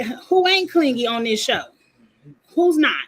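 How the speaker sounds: loud, incredulous rhetorical question; exasperated. Real, not acted. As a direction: throw the question out, fed up.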